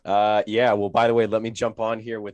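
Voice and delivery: stuffy, nasal voice. Real, not acted. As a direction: talk through a blocked nose. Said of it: "my nasally ass voice".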